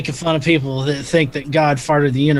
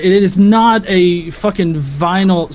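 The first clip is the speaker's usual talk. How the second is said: exasperated outburst; 3 semitones higher, 3 dB louder than usual. Real, not acted. Heated debate, exasperated comeback.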